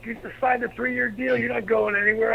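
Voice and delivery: high-pitched imitation of a protesting wife; retold wifely protest; incredulous objection.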